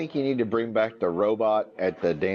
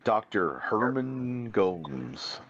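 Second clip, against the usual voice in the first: flat echoey pa page; 5 semitones lower than usual. Pretend. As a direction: drag it out like a PA. Mock PA page.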